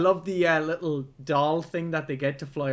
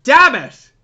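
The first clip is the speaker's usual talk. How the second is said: sudden loud furious outburst, higher; witch cursing; 8 semitones higher, 13 dB louder than usual. Retold or imitated. Witch cursing her failed spell, loud furious outburst. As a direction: blurt it like a frustrated witch. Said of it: "the witch is like".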